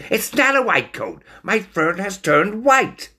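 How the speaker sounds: high, indignant little shriek; squeaky, fed-up insistence; exasperated stoat scream. A narrator's reading. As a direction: protest loudly in a high stoat voice. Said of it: "screamed Stoat".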